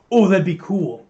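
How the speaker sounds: eager 'that'd be cool' voice; mock excited pitch. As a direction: pitch it like a clueless producer. Mock filmmaker pitching idea.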